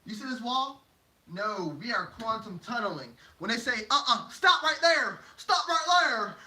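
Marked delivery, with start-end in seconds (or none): 3.9-6.4 loud, high, stretched order; mock halting command. Blockers ordering someone at the wall, mock command shout. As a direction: call out to block the way.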